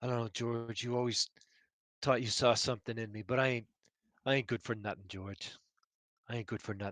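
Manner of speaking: muttered under breath. Playing a scene, a man mutters to another character under his breath. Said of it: "muttering to to George, just kind of under his breath".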